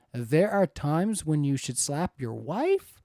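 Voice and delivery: slow, stressed "There are times" with a doubting question lift; "There are times when you should slap your wife?" read slowly, stressed as an incredulous question; questioning emphasis. Shown as a demonstration. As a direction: lean on "There" and let it hang as a question. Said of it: "I put the emphasis on there to show that there's a question mark".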